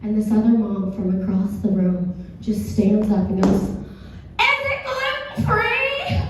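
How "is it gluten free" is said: very high, drawn-out mock holler; stretched, hammed-up high cry; mock mom yell. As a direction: imitate a mom calling across the room. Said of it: "that mom that yelled out".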